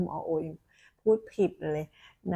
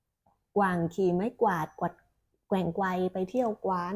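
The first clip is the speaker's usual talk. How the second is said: slow careful reading; slower than usual. Shown as a demonstration. Doctor shows her child the tongue twister, reading it slowly. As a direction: read it out slowly, word by word. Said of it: "คือเด็กก็ต้องขยับรูปปากนะคะ".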